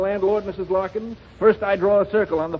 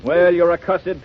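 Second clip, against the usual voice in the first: normal talking voice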